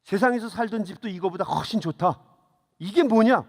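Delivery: put-on a touch of an indignant old lady scolding an angel; retold scolding. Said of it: "야단을 쳤다는 거예요".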